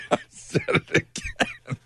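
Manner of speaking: squeaky laugh through the words. Real, not acted. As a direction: crack up while admitting it. Laughing at his own insult.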